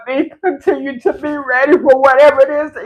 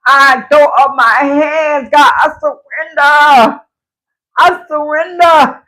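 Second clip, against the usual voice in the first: slow, tear-choked I surrender; tearful surrender; 2 semitones higher, slower than usual. Real, not acted. Praying to God in tears, slow and choked. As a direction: give it up to God, crying.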